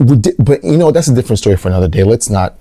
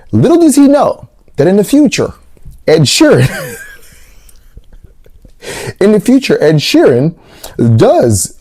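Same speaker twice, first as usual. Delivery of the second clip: dramatic prophecy; 8 semitones higher than usual. Retold or imitated.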